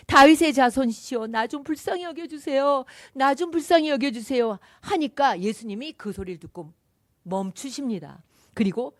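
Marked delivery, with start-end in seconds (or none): 0.1-4.6 louder mock cry. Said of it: "더 큰 소리로 부르짖는, 소리 지른 거예요".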